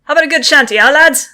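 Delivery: smiling, lilting call across the crew. Acted. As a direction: pitch a cheerful suggestion up and out with a smile. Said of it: "smiles Billy from the other mast".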